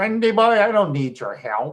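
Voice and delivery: put-on Finnish accent. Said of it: "Said in this Finnish accent".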